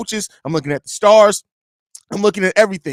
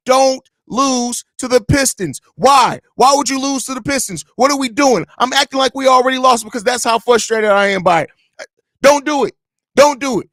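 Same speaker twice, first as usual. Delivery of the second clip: pissed off; 4 semitones higher than usual. Real, not acted. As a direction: beg the team not to blow it. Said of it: "that's how pissed off".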